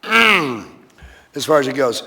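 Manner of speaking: very slow, drawn-out restart after clearing throat. Shown as a demonstration. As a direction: stretch each word, slowly and deliberately. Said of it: "nice and slow this time around".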